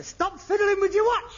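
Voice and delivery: high, loud sudden snap; irritated shout. Acted. Son snapping at his father over the watch, irritated shout.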